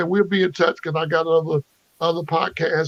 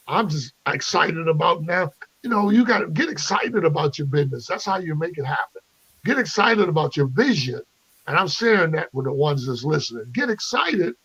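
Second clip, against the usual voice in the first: motivational speaker. Acted. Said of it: "I might sound like a motivational speaker".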